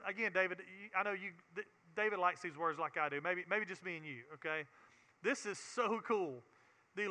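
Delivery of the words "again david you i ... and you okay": much softer, confiding aside; quiet personal aside mid-sermon; aside to a friend. Real, not acted. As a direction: lean in and say it just to David. Aside to David, dropped voice.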